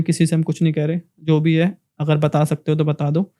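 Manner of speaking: soft, gentle coaxing of villagers; asking sweetly. Retold or imitated. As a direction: coax them kindly, softly, to open up. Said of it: "तो बड़े बड़े प्यार से पूछा मैंने". (प्यार से, नरमी से पूछना)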